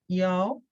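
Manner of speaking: 要 as an isolated tone demonstration; fourth tone. Shown as a demonstration. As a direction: model 要 carefully as a fourth-tone word. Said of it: "it has a fourth tone".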